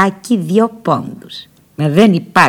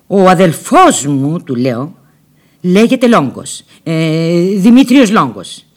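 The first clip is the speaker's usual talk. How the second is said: emphatic lie; 5 dB louder, slower than usual. Retold or imitated. Lying urgently to the informer.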